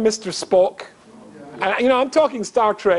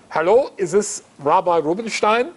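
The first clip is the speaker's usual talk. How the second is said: imitated German accent on the phone. German caller rings the rabbi, in a German accent. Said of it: "in this German accent".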